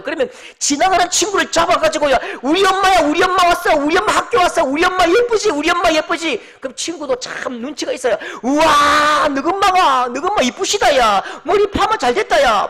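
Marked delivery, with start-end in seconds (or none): 2.4-6.4 put-on high, loud bragging kid; boy telling his friend about his mum, all excited; excited child. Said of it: "마음이 들뜨고 막 흥분되고 기쁘다고요". 8.4-12.7 high, loud gushing praise; excited friend. Retold or imitated. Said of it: "같이 막 흥분하는 거죠".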